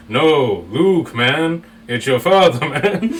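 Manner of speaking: laid-back stoned Darth Vader. Retold or imitated. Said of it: "That sounds more like a stoned person".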